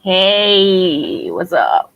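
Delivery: put-on too-cool greeting; cool persona. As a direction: play it super cool with a stretched greeting. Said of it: "I'm just establishing my persona".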